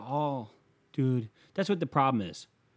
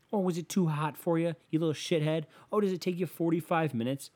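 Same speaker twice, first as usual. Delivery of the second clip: high-pitched mock sympathy; sarcastic, sing-song goading; mocking taunt; 6 semitones higher than usual. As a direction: taunt them like a whiny weakling. Taunts people who avoid mowing.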